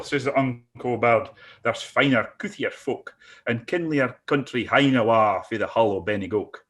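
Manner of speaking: reciting a Scots poem; dramatic poetry reading; poem recital. Acted.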